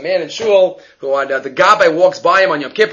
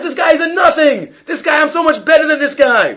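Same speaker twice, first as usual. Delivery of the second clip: scornful man; 10 semitones higher than usual. Retold or imitated. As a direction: sneer at this guy. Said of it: "he says".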